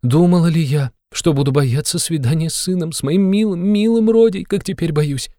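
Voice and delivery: high, pleading fearful mother; mother admits she fears her son; timid fear. A narrator's reading. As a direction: confess the fear, pitched high. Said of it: "робко взглянув на него".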